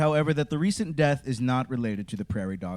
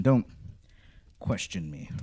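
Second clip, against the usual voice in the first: menacing whisper; 3 semitones lower than usual. Pretend. Wizard threatens listener.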